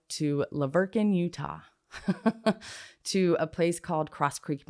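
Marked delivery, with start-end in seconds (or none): 1.9-2.8 brief higher-pitched laugh; a little laugh between phrases; short laugh. Real, not acted. Storyteller naming where they drove her, laughing briefly.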